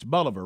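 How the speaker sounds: Bolivar starting with "buh" or "bah", no long O; local pronunciation. Shown as a demonstration. Host checks the correction, Bolivar without the "Bo". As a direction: say Bolivar to rhyme with Oliver. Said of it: "not Bo".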